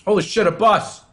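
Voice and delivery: high, loud startled outburst; surprised shout. Real, not acted. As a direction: blurt it out, genuinely startled. Reacting live while playing DayZ.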